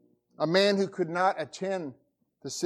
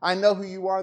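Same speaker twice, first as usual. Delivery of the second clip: cried out; 3 semitones higher, 4 dB louder than usual. Acted. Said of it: "and he cried out".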